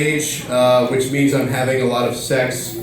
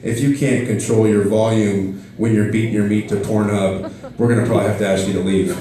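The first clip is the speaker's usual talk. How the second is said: neighbor; 6 semitones lower than usual. Retold or imitated. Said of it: "the neighbors are gonna knock on my door and say".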